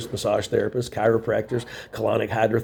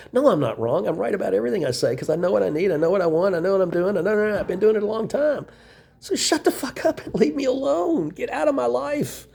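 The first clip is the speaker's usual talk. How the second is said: higher, rising angry tirade at the ex; angry rant; 9 semitones higher than usual. Real, not acted. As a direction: let the anger climb in pitch. Tirade at ex-girlfriend.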